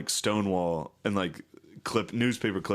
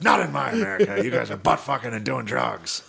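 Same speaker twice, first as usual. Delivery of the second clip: mock outraged American; 3 semitones higher, 4 dB louder than usual. Americans voiced as outraged parent.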